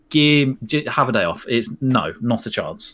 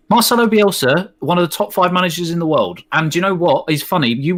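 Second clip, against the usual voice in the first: mock outrage; 5 semitones higher, 3 dB louder than usual.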